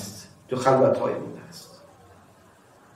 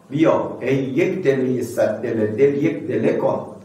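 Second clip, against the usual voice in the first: slow poem recital; slower than usual. Acted. Preacher reciting verse to congregation, slow recital. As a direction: chant the couplet slowly.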